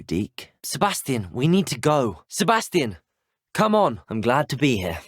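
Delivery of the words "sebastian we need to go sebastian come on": insistent, raised call on the name and command; urgent calling. Acted. Pressing a friend to leave, urgent and raised. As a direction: urge a friend to come along, voice rising.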